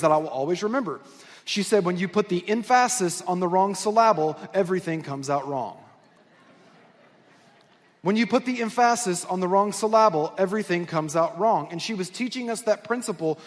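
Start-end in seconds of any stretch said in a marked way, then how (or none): 1.8-5.8 "emphasis" as em-FASS-is, "syllable" as suh-LAB-ul; wrongly stressed "emphasis" and "syllable", each on its middle syllable; misplaced stress. Retold or imitated. Teacher's phrase with deliberately misplaced stress. 8.0-11.7 "emphasis" said em-FASS-is, "syllable" said suh-LAB-ul; deliberately mis-stressed "emphasis" and "syllable", accent on the second syllable; misplaced stress. Retold or imitated. Repeats the mis-stressed phrase.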